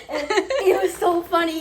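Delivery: giggling through the words; laughing as she tells it. Real, not acted. Laughing while retelling.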